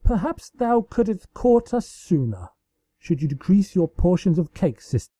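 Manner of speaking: a lightly voiced regal sister teasing; archaic royal tease. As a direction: deliver the insult with a straight face. Luna teases her sister archaically.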